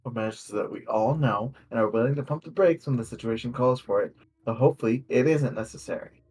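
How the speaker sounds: measured, scripted campaign intro read aloud; game master's opening speech. Acted. Game master welcomes players to a new adventure, scripted opening speech. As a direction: deliver a prepared welcome to the table.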